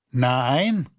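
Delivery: ein knappes, lautes Nein; gebrüllt. Acted. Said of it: "brüllte er sie an". (er brüllt die Bittsteller an)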